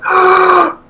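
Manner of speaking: high, slow, awestruck; amazed gasp. Retold or imitated. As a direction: realize your idol is on stage.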